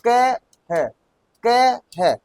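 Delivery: drawn-out syllables, spoken as you type; steady slow typing drill; slow dictation. Shown as a demonstration. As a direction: chant each syllable slowly while typing. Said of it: "कह मत पढ़ो आप, इसको क्या पढ़ोगे".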